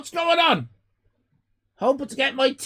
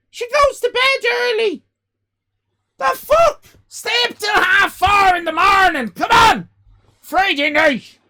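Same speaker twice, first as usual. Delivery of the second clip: loud, high outraged yelling; shouting; 10 semitones higher, 9 dB louder than usual. Real, not acted. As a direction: yell at chat in disbelief. Streamer scolding chat for sleeping early.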